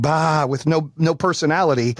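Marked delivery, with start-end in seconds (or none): 0.0-0.5 imitated sheep's baa; a lightly mimicked sheep; mock sheep bleat. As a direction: bleat like a sheep, half-hearted. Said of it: "they're like sheep".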